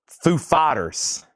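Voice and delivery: slow, drawn-out Walken-style band name with weight on the first word; a lightly voiced Walken, stretching each word; Christopher Walken. Host imitating Christopher Walken for the stream, slow and deliberate. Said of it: "emphasize the band name like Christopher Walken".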